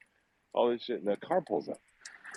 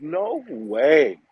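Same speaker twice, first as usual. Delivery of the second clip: loud, drawn-out retold amazement; disbelief; 5 semitones higher, 6 dB louder than usual. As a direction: swoop up high in mock-stunned disbelief.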